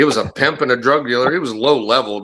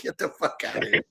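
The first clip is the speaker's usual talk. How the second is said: hushed, whispery mock yell; retold angry dismissal; 4 semitones higher, 10 dB quieter, faster than usual. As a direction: imitate a furious send-off under the breath.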